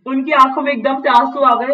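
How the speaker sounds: usual speaking voice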